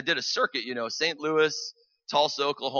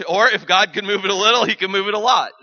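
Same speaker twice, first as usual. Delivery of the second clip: preaching emphasis; 6 semitones higher, 11 dB louder than usual. Real, not acted. Preacher driving a point home.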